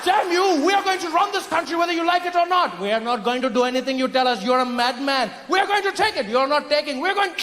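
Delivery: high, shrill-pitched mock outrage; hammed-up imperial rage; furious colonist. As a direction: bellow the takeover like a cartoon conqueror. Colonist shouting takeover in sketch.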